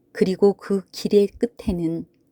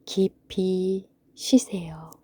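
whisper; 4 dB quieter, much slower than usual. Acted. Closing goodnight to listener.

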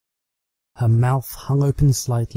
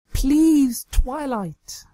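Trixie, begging; much slower than usual. Acted. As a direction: beg sweetly.

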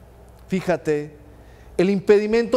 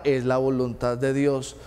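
lower, soft, resigned sigh of fatalism; resigned refrain; 5 semitones lower, 3 dB quieter than usual. Retold or imitated. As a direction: drop the voice like a shrugging believer.

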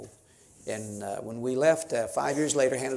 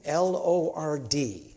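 slow, letter-by-letter spelling of L O R D; teacher spelling an acronym slowly; much slower than usual. Shown as a demonstration. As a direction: spell L O R D slowly for the crowd to follow. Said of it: "let me teach you a little acronym".

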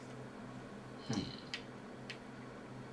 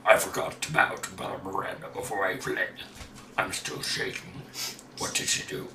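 a lightly lowered voice reading a diary; deepest voice. Pretend. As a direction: read the notes in your deepest voice. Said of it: "How was that for a low voice".

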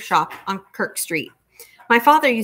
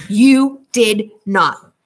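shocked disbelief; 5 dB louder, much slower than usual. Acted. Cousin caught in lie.

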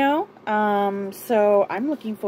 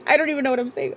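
laughing; 4 semitones higher, much faster than usual. Real, not acted. Laughing at her own confusion.

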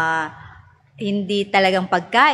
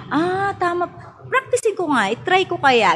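put-on child realizing; 8 semitones higher than usual. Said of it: "nakikita nila".

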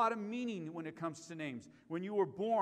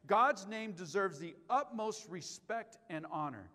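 repeated with emphasis; 4 dB louder, slower than usual. Shown as a demonstration. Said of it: "Church, did you hear me on that?".

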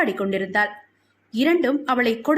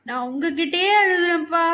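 put-on high little-girl voice; childlike, higher-pitched appeal; little child; 4 semitones higher than usual. A narrator's reading. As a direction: plead with daddy like a small child. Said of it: "என்றாள் குழந்தை".

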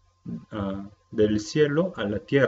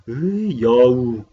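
drawn-out, louder teasing "Uy, youwu"; teasing exclamation; 7 dB louder, slower than usual. Retold or imitated. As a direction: tease someone for being a flirt. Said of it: "Sí dice en coreano así". (exclamación burlona y alargada)

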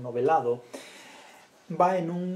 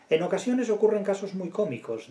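el juez; 6 semitones higher, 3 dB louder than usual. Acted. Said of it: "dice el juez".

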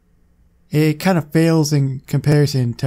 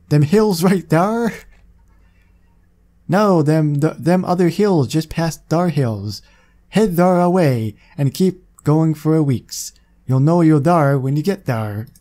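put-on old-timey Western accent. A hint of old-timey Western accent giving directions. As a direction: give directions like a Wild West old-timer. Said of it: "Speech problems and this old-timey Westerner stuff".

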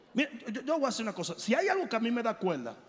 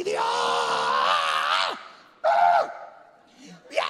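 very low, strained, mock cry to God; hammed-up half-hearted preacher wail; lifeless pastor; 6 dB louder, much slower than usual. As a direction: parody a pastor forcing a shout. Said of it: "Sale el pastor y dice".

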